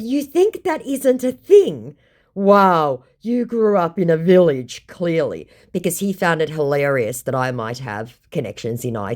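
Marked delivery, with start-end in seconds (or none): 0.0-5.5 scornful retort. Retold or imitated. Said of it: "I said".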